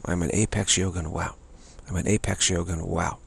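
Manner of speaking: quiet, steady chant of the affirmation; soft repeated mantra. Shown as a demonstration. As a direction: repeat it softly to yourself, falling away. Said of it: "just keep saying that".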